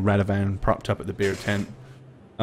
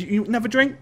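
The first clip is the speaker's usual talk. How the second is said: dockworker voice; 11 semitones higher, much faster than usual. Acted. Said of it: "He goes".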